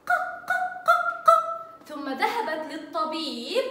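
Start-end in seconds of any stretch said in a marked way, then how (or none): 0.1-1.3 ق repeated as a short high qa, much higher; short qa sound. Shown as a demonstration. Teacher voicing qaf with fatha for the children, high repeated bursts. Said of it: "فتح رأسها وأصبحت".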